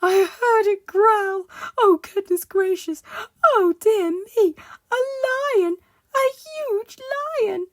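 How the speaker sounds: high, loud, hysterical wailing; panicked shriek. Acted. Timid Mister Jelly imagines a lion, hysterical shrieking. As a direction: work yourself up into a shrieking frenzy of terror. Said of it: "shrieked Mister Jelly".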